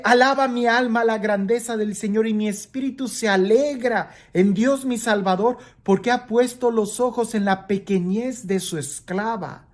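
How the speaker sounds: lectura de la Escritura en tono alto; lectura proclamada. Acted. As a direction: proclama la alabanza con voz sostenida y aguda. Lee las palabras de María. (alabanza leída en voz alta)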